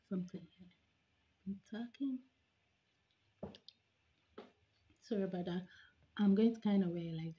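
talking around fingertip; finger in mouth. Real, not acted. Seen 1: fingertip pressed on lower lip and teeth while talking.

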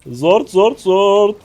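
high, loud squeaky chant; squeaky silly voice. Acted. Streamer squeaks a silly word at teammates, high and loud. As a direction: squeak it out like a cartoon.

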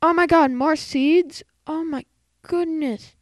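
delighted surprise; excited. Real, not acted. Excited finding more seeds.

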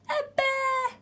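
high, loud cry of fright; high alarmed shout, kept in check; storybook scream. A narrator's reading. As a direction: cry out as a scared child, half screamed. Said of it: "screamed Eddie".

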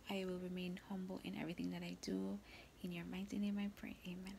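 hushed, devout praying whisper; whispered prayer. Real, not acted.

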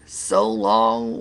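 low, loud mocking farewell; storyteller's low-voiced rival; Stinky. A narrator's reading. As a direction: call a taunting goodbye in a low voice. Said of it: "waved Stinky".

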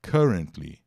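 currently with a hard K and short KAR; KAR-rent-ly, plain K start; teacher modelling currently; model pronunciation. Shown as a demonstration. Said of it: "tem só a pronúncia K".

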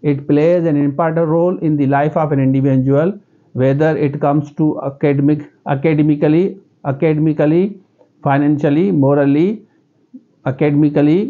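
slow English in a local Sindhi accent. Shown as a demonstration. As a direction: speak English slowly in your own Sindhi accent. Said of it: "मैं भी कहूँगा". (सिंधी लहजे में धीमी अंग्रेज़ी)

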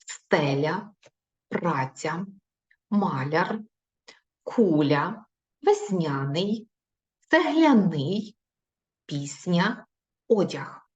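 put-on each word said slowly and clearly for children to repeat; reading words aloud. Shown as a demonstration. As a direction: model the words one by one. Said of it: "Читаємо разом зі мною". (чітке читання слів для повторення)

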